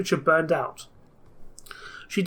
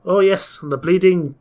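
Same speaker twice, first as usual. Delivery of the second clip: put-on Yorkshire accent; 3 dB louder than usual. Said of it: "I cannot keep up this accent".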